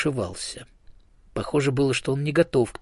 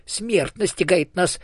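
much higher, grand squeaky speech; a tiny ghost getting lofty; hamster ghost; 9 semitones higher, 4 dB louder than usual. A narrator's reading. Dead hamster holding forth to the elephant, high and solemn.

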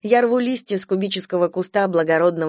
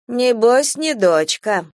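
knowing hint; 5 semitones higher, 4 dB louder, slower than usual. Acted. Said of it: "намекает она".

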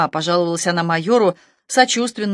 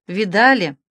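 helpless query. A narrator's reading. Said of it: "беспомощно осведомился".

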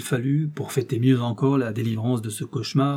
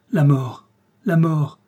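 loud repeated cries of terror; terrified cry; 3 semitones higher, 6 dB louder, slower than usual. Acted. General cowers in the corner, terrified cry. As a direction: keep crying out in fear. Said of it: "répétait-il".

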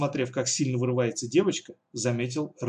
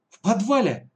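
much higher, louder gasped question; frightened gasp; 9 semitones higher, 6 dB louder than usual. Acted. The redhead gasping in fright at the cellar plan, much higher and louder. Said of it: "испуганно ахнул рыжеволосый".

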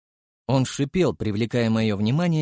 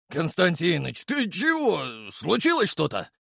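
worried; 6 semitones higher than usual. A narrator's reading. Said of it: "встревоженно спросил старшина".

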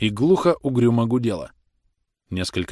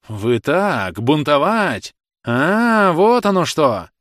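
squealing outrage; 6 semitones higher, 6 dB louder, much slower than usual. A narrator's reading. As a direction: voice climbing to a high, loud squeal. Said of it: "Голос у него вздрогнул, взвизгнул". (голос срывается на яростный визг)

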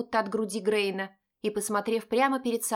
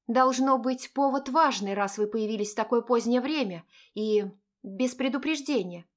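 reproachful; 2 semitones higher than usual. Acted. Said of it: "удержаться от укора в голосе".

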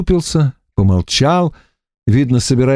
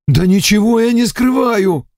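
near tears; 10 semitones higher than usual. A narrator's reading. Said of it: "чуть не заплакал".

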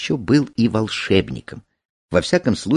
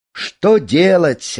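high, drawn-out cloud voice; resigned cloud; 9 semitones higher, 3 dB louder, much slower than usual. A narrator's reading. Cloud answering the sage, high and resigned. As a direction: stretch it out high, helplessly.

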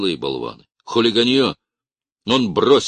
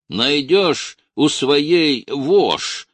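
loud, very slow jeer, higher; mocking bass shout; 9 semitones higher, 6 dB louder, much slower than usual. A narrator's reading. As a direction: drawl the insult to mock him. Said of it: "крикнул из кучки бас".

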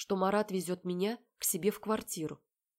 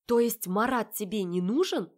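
raised, pressing question; pointed challenge; 3 semitones higher, 6 dB louder than usual. Acted. Heroine pressing her sister about Marat, raised voice. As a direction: push her for the truth.

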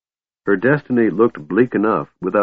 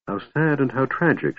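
softer murmured sigh of pity; 5 semitones higher, 5 dB quieter than usual. Acted. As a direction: breathe it out softly, half to herself. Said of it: "she murmured".

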